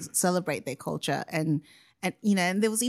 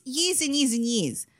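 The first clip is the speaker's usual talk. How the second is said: ordinary delivery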